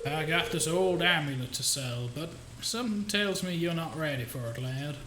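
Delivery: hammy mock Southern accent; terrible Southern accent. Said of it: "my terrible Southern accent".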